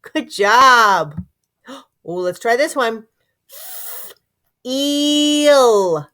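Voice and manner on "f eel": F then eel, separated and drawn out; sounding out. Shown as a demonstration. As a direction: segment the word gently. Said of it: "Stretch it out".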